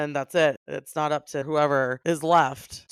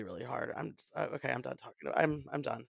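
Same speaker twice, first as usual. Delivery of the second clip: choked up; 4 semitones lower, 10 dB quieter, faster than usual. Real, not acted. Overwhelmed talking about lost parents.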